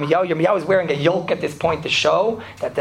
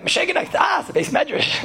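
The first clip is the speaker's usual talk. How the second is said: mock yelling; 11 semitones higher than usual. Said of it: "Yiddish is screaming".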